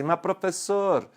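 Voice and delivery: lightly voiced pupil, drawn-out and slow; mock student objection, words stretched out; doubting student. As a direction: imitate a student slowly recalling a classroom rule. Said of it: "você deve estar pensando assim".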